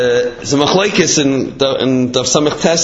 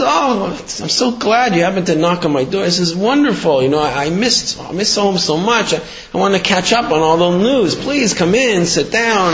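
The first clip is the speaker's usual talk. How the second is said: higher-pitched, gushing host; acted delight, pitched up; eager welcome; 6 semitones higher than usual. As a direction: welcome a long-missed friend eagerly. Eager host welcomes homesick friend.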